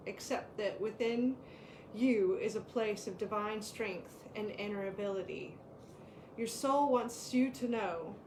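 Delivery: calm, measured reading of an oracle card. Acted. Co-host reading the power card aloud, calm and measured. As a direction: read the card's message to the listeners steadily.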